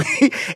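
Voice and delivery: soft, brief laugh; quiet little chuckle; small giggle. Real, not acted. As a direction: giggle quickly to yourself. Giggles at own singing.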